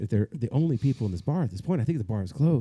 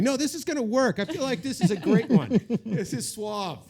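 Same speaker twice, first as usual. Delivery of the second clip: much higher, laughing cocky inner voice; inner monkey voice; 11 semitones higher than usual. Retold or imitated. His inner voice sells him a dumb plan, high and laughing. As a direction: let the silly brain voice cheer you on, laughing. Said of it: "little monkey in my brain".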